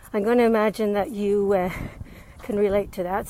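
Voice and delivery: slightly winded after a run; out of breath. Real, not acted. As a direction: talk while catching breath. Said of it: "I'm a little out of breath".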